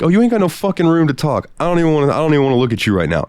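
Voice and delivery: fed up with his friend's hypocrisy, scolding; retold angry snap. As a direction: throw her words back at her. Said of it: "I looked at her and was like".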